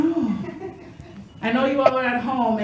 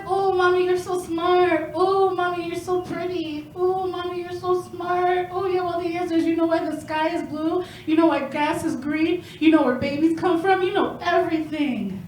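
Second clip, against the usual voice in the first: put-on higher, sweet child voice of adoration; little daughter adoring; 4 semitones higher than usual. A little daughter praising her mom, lightly higher and sweet. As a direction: gush like a small girl to her mom. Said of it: "She was always like".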